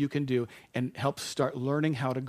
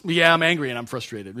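exasperated answer; 7 dB louder than usual. Retold or imitated. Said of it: "acted guy answer".

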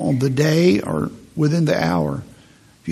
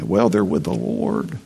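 higher, slow, lightly put-on churchy voice; mock pious platitude; 5 semitones higher than usual. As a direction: mimic a glib comforter, drawn out and high.

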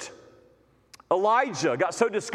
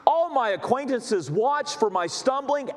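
"All" stressed at the start of the quote; 4 semitones higher than usual. Shown as a demonstration. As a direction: hit "All" before the rest. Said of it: "notice that word all".

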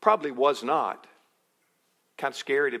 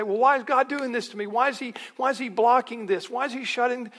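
mock complaint; 9 semitones higher, 4 dB louder, faster than usual. Congregant complaining to God.

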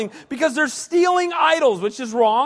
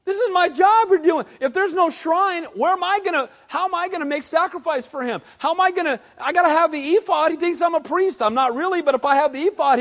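panicked priest; 5 semitones higher than usual. Retold or imitated. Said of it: "He's like".

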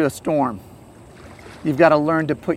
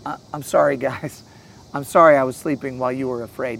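very gentle apology; 3 semitones lower than usual. Acted. Imagined Jesus soothing frightened disciples, gently apologetic. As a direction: apologize gently, as if just woken. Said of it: "and very gently say".

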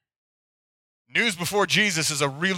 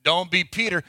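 mocking Sunday school teacher; 4 dB louder than usual. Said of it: "every time the teacher would tell this story".

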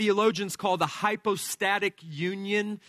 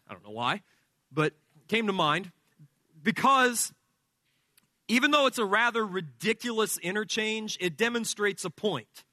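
ordinary delivery

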